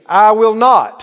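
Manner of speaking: loud, slow lead for the congregation; deliberate call-and-response preaching; out-loud declaration. Shown as a demonstration. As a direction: declare it firmly for others to echo. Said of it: "Everybody said out loud".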